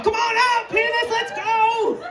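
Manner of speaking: high, sing-song coaxing; coaxing call. Retold or imitated. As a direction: coax it like a shy pet. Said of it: "Had to talk to him".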